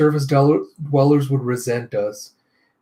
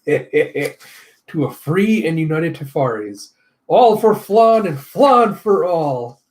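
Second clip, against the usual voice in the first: villain rallying cry; 2 semitones higher, 3 dB louder, slower than usual. Acted. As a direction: proclaim it like a cult slogan.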